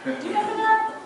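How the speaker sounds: wag a finger like a stern grandma; scolding grandma. Retold or imitated. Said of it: "she'd go".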